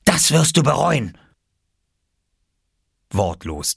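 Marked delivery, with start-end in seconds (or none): 0.1-1.2 put-on high, loud girl's threat; fierce childlike warning; angry threat. A narrator's reading. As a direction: vow revenge in a high, angry voice. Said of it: "zischte sie".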